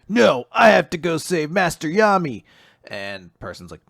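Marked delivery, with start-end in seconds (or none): 0.1-2.4 acted defiance. Acts out hero defying stranger.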